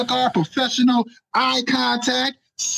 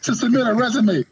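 high mock manager stumbling over the woos; imitating stammering manager; 3 semitones higher than usual. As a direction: play the manager tripping into his own words. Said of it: "he was like".

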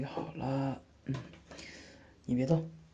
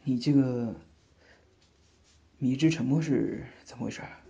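louder playful prodding; teasing question; 6 dB louder than usual. Acted. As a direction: poke fun at her silence. Teasing sister's silence.

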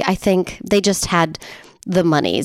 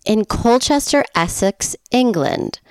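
put-on playful, amateur English accent; fake English accent; 4 semitones higher than usual. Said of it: "do a little English accent".

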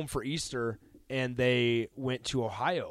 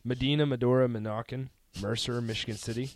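roll call; 3 semitones lower than usual. Real, not acted. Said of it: "Sounds like you're doing roll call".

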